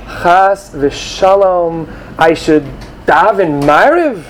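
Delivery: drawn-out, mocking horrified gasp of a phrase; mock alarm. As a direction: mimic a scandalized student slowly. Mocking a fretful student.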